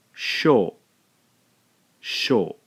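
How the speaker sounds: "sho" as one syllable; one clean beat for "sho"; blended sho. Shown as a demonstration. Teacher showing learners the blended syllable. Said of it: "we end up with".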